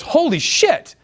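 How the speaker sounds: staged astonishment to open the tease; mock shock. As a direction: fake being floored. Acted shocked exclamation.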